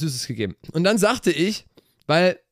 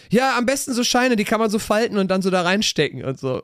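put-on higher, keen kid calling after him; eager little boy; 6 semitones higher than usual. The boy calling after the narrator about the money, eager kid voice. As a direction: chirp it like a cheeky boy. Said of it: "Meinte der Junge".

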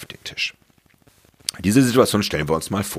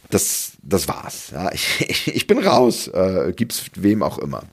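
egoist voice; slower than usual. Retold or imitated. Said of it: "die in dir sagt".

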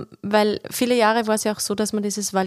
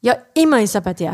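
role-playing the lady; 4 dB louder, faster than usual. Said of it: "Ich bin die Dame und ich sag".

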